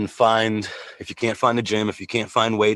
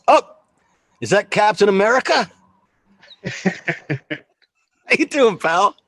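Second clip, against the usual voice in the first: loud, higher delighted hello; excited greeting; 9 semitones higher, 6 dB louder, slower than usual. Real, not acted. Welcoming his trainer onto the call, excited and loud. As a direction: greet him like a long-lost buddy.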